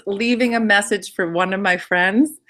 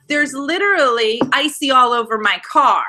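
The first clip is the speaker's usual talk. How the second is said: raised-pitch exasperated complaint; retold indignant outburst; retold freak-out; 3 semitones higher than usual. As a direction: insist on it, mildly worked up. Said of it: "so now I'm freaking out".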